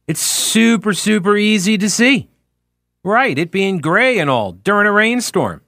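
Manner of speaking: mock-earnest advice, pitch lifting on the punchline; sarcastic. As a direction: lay on the sarcasm, feigning total conviction. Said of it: "Obviously, I'm being sarcastic".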